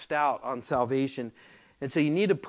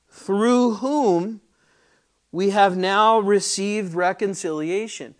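slow, loud and higher, ringing out each phrase; slow pulpit proclamation, higher and louder; preaching at full force; 4 semitones higher, 8 dB louder, slower than usual. Acted. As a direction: proclaim it to the back of the church. Reads verse eleven at full force.

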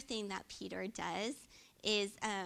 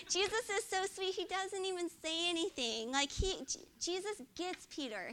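ordinary talk

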